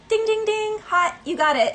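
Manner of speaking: high cheery ding ding announcement; game show ding. Pretend. God announcing the win, high cheery game-show call. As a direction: ring it like a prize bell. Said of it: "And then God is like".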